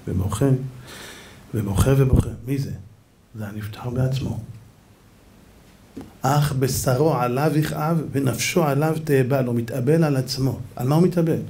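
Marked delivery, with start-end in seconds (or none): 6.2-9.4 soft, slow, grieving recital; mournful quotation. Acted. Rabbi on the dead man mourning himself, soft and slow. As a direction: let the verse sink down slowly and softly.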